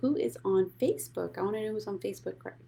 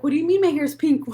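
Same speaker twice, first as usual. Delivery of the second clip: high, loud, fast and laughing; laughing quote; 9 semitones higher, 11 dB louder, faster than usual. Retold or imitated. Streamer replays her confusion to viewers, laughing loudly. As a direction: blurt it out through a laugh. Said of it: "Oh, I was like".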